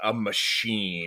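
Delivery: MACHINE drawn out, slow and heavily stressed. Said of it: "like, all capital letters".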